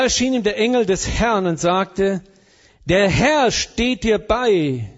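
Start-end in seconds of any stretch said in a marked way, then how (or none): 2.8-4.9 mock wrong reading. Shown as a demonstration. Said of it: "Was steht da?".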